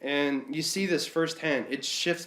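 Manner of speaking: talking with a blocked nose; congested, nasal cold voice; stuffed-up nose. Real, not acted. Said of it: "I'm stuffed up".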